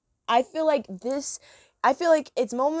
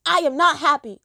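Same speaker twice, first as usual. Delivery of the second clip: grumpy Pablo voice; 4 semitones higher, 6 dB louder than usual. Retold or imitated. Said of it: "he says".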